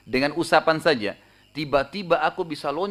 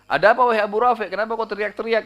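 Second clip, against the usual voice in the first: higher, louder put-on voice; retold urgent call in a changed voice; disguised voice; 8 semitones higher, 6 dB louder than usual. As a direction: call out as if someone else, pitched up. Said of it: "dengan suara lain gitu".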